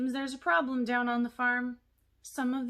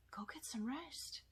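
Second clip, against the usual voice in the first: soft and gentle; 4 semitones higher, 11 dB quieter than usual. Acted. Gently sends puppet to bed.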